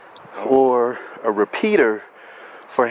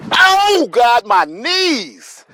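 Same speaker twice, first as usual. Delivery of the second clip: pained groan; 10 semitones higher, 5 dB louder, much slower than usual. Real, not acted. Knee pain after jumping.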